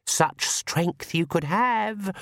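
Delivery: shadow voice. Acted. Shadow voice tempts.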